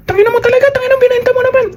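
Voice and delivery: high, strained cursing yell from a man overheard on the call; imitating a furious man swearing down the phone; angry man cursing. Scammer's supposed wife shouting on the phone, angry cursing yell. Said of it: "Boses lalaki".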